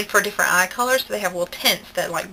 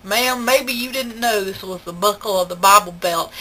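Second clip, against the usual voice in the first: a man's reproach. Retold or imitated. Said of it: "and he said".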